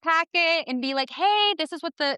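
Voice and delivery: passionate. Real, not acted. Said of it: "I'm very passionate about this".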